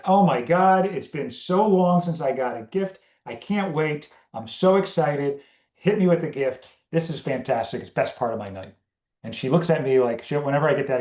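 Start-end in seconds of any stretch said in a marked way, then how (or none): 0.0-8.7 gushing, exaggerated delight; mock overexcited. Dad gushing to his daughter over her gift, overexcited. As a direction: ham up the excitement at the gift. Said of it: "And I said".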